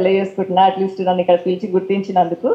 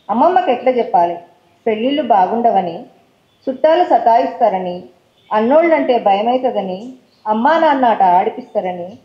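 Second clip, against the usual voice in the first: poem recital. Acted. Poet reading her child abuse poem to the audience, measured recital. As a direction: recite each line like a verse, letting it settle.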